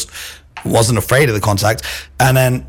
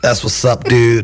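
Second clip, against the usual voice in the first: jokey American dude accent; slower than usual. Shown as a demonstration. Guest warming up on request, playful American accent. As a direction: put on a loose American accent. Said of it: "in an American accent".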